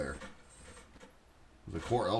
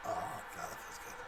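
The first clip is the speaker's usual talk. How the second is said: breathless wheezing laugh; real laughter; 14 dB quieter than usual. Real, not acted. Streamer recovering from a laughing fit, wheezy laughter. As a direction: laugh out the last air.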